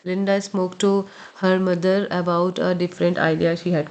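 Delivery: plain connected reading at conversational speed; normal conversation speed. Shown as a demonstration. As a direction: read straight through without pauses. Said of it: "normal conversation speed में".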